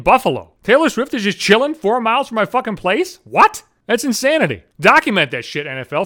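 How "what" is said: loud disbelieving yelp rising up; incredulous what. Real, not acted. Ranting comic reacting to a singer near his home, a loud incredulous yelp. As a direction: blurt it in real disbelief.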